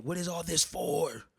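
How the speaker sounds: slow, wailing yell acted out; retold yelling. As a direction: imitate yourself yelling in a drugged haze. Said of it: "I just start yelling at him".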